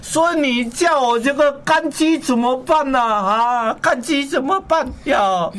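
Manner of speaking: lightly mock-formal Mandarin; switch to Mandarin. Complaining mother-in-law switches to Mandarin, mock-formal. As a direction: put on a Taiwanese-accented Mandarin. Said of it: "所以讲国语啦".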